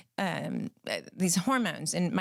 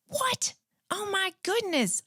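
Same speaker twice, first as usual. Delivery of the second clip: a sudden high-pitched gasp of a retold shock; shocked squeal; 11 semitones higher, slower than usual. Retelling her reaction to the hairdresser's dandruff remark, a high shocked squeal. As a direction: squeak it out in mock horror.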